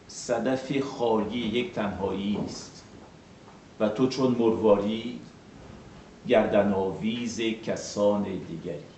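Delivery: measured recitation of Persian verse; sustained, even verse reading; poem read in Persian. Shown as a demonstration. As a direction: read the Persian lines as poetry, syllable by syllable. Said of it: "Je vais lire d'abord".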